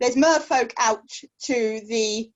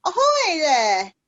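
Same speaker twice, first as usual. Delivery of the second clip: slow, louder cheery call over the side; shouting from crow's nest; 5 semitones higher, 4 dB louder, slower than usual. Acted. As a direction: hail a ship, drawn out. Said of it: "lean over the side of the boat and go".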